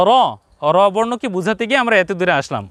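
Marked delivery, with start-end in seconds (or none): 0.1-0.1 "র" with rounded o; correct rounded vowel. Shown as a demonstration. Teacher fixing the mistake for viewers, rounded "র". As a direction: say "র" as a heavy ro. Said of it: "উচ্চারণ হবে কি?".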